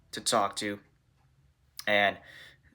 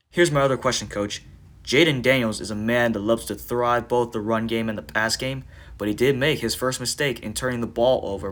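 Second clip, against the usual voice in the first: louder, eager press-room reporter; a pretend reporter calling out his question to the coach, louder; reporter's question; 6 dB louder than usual.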